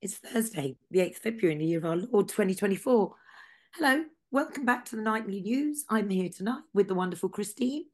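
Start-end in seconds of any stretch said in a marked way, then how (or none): 3.8-7.8 light put-on Scouse accent, higher and louder. Host welcoming guests in a put-on Scouse accent. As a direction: greet the listeners in a hammed-up Scouse accent. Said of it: "I'm still doing it in a Scouse accent".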